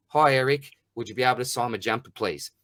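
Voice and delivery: imitating a polite young fan's request; very politely. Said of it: "said very politely".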